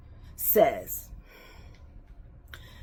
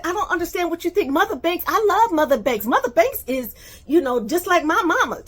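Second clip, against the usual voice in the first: high, fast, gushing mock of Kim; high-pitched mocking voice of a gushing woman; 9 semitones higher, 5 dB louder, faster than usual. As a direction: rattle it off high and sugary. Kim's words voiced in retold argument.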